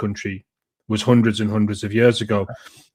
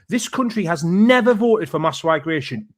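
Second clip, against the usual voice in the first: ordinary talk, nothing marked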